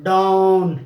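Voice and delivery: डाउन as one long, loud rounded syllable; model pronunciation. Shown as a demonstration. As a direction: draw out the vowel of डाउन, level and emphatic. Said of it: "इसको हम क्या बोलेंगे?".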